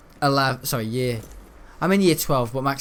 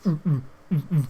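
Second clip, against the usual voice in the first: imitated low beat. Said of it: "low beat".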